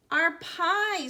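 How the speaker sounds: high, loud wail of loss; dramatic high-pitched lament; dismayed cry. A narrator's reading. Child wails over lost pie.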